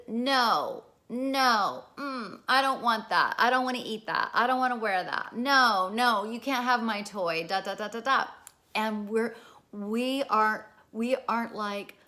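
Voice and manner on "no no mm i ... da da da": lightly voiced toddler, higher and louder, saying no; a hint of a stubborn little kid refusing; defiant toddler. Mother imitating her toddler refusing food and toys, lightly higher and louder. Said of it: "They start saying no".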